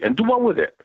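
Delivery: high, mocking question; sarcastic. Real, not acted. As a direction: ridicule the idea. Mocking gun response.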